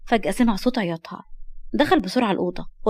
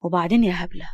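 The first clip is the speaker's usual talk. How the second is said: lightly lowered, calm loving voice; tender reassurance; 3 semitones lower than usual. Acted. Man promising never to abandon the girl, tender.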